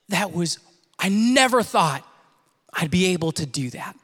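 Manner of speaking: hushed, halting retelling of her words; moved, awed. Retold or imitated. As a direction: let it land softly with long pauses.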